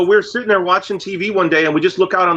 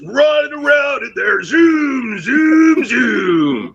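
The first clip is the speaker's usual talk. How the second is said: zooming; 6 semitones higher, much slower than usual. Pretend. Acting out thoughts racing around.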